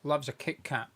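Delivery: talking through a mouthful of Kit Kat; crunching Kit Kat. Real, not acted. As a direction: chew and talk at once. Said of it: "apologies if you hear me crunching".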